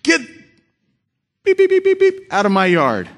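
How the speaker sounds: high bleeped-out angry yell at the neighbour; angry neighbour screaming get off my yard; retold screaming. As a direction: holler him off the lawn, swearing beeped. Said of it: "just screaming and hollering and yelling".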